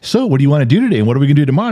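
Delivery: bright morning-chatter mock; chipper wide-awake partner. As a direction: imitate someone wide awake at night. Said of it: "talking like you just woke up".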